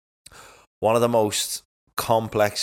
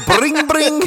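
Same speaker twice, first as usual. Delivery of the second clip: high laughing repeat; 8 dB louder than usual. Acted. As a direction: giggle the words out high. Mocking the repeated word.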